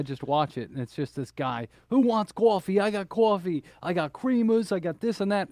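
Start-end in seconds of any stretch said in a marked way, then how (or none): 1.9-5.5 higher-pitched impression of a viral coffee shouter; raised, insistent mock New York pitch; imitating coffee guy. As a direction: mimic the man hawking coffee in the video. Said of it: "he just gets aggressive".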